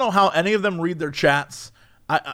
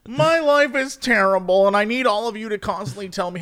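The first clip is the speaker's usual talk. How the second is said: emotionally damaged poster; 4 semitones higher than usual. Retold or imitated. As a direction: imitate an attention-seeking sufferer. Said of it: "emotional damage, where they're just like".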